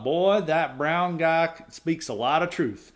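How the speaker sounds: mock Southern voter. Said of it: "They're like".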